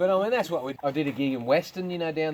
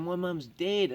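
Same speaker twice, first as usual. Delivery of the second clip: higher, lightly mimicked complaint; mock-upset, pitched up; upset heckler; 5 semitones higher, slower than usual. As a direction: imitate a heckler insisting on her grievance. Upset heckler repeats her objection.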